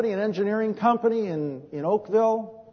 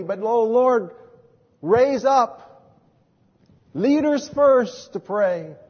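retold prayer; much slower than usual. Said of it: "I began praying".

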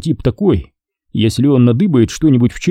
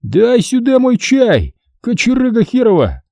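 a raised, slowed yell at a thief of tea; shouting; 12 semitones higher than usual. A narrator's reading. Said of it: "крикнул Хасан".

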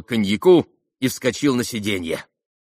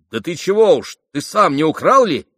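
громко, с подначкой; 8 semitones higher, 6 dB louder than usual. Acted. Подначивает Митю в разговоре.

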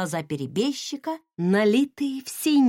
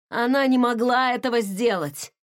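growled. Acted. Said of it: "рыкнул предатель".

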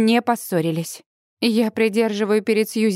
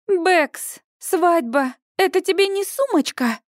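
much higher, exasperated yell; yelling harder; 8 semitones higher than usual. A narrator's reading. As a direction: shout even harder at her friend. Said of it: "ещё пуще орёт Сьюзи". (орёт, высоким голосом)

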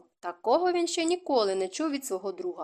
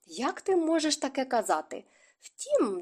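mock indignant mother; 4 semitones higher than usual. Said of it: "притупнула ногою від обурення".

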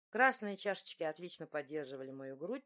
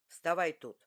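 a big man putting on a sweet tone; sweetly asking; 6 dB louder than usual. A narrator's reading. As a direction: coax her gently onto the platform. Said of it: "миленько попросил он".

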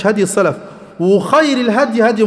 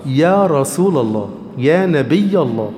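slow, lower, reverent "يا رسول الله"; respectful address; 6 semitones lower, slower than usual. Shown as a demonstration. Preacher showing the polite way, slow and reverent. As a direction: draw out each title with reverence. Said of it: "تقول له إيه؟".

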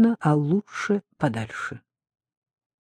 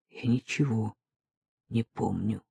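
softer, numb repetition; quiet repeat; 6 semitones lower, 9 dB quieter than usual. Acted. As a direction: say it again, barely audible. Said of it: "тихо повторил я".

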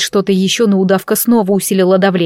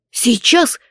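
surprised; 3 semitones higher than usual. Acted. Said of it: "удивился Дарк".

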